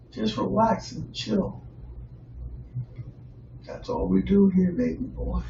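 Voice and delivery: relax the listener, easy and soft; laid-back. Real, not acted. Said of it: "I'm a laid back guy".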